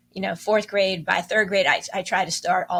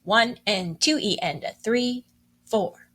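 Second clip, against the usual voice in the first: counting along. Shown as a demonstration. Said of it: "Will you say that with me".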